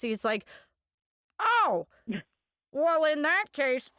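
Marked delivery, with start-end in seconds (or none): 1.4-3.9 high, slow, hammed-up enthusiasm; exaggerated gushing caricature, laughing through it; Frank. Frank calling out to Lorraine, high drawn-out mock delight.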